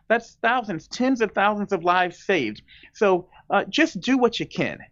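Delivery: earnest, emphatic appeal with slowed key phrases; passionate. Real, not acted. Surgeon general urging listeners to save lives, passionate. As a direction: press each point home with real conviction. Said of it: "You can hear the passion in my voice".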